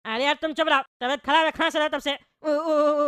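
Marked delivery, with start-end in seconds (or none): 2.1-3.1 mock cough. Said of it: "उ कर रहे हो".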